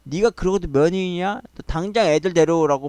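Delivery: mild mock yell of an irate mother-in-law; retold yelling. Mother-in-law demanding the children back, half-hearted mock yell. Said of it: "진짜 고래고래 소리를 지른 거예요".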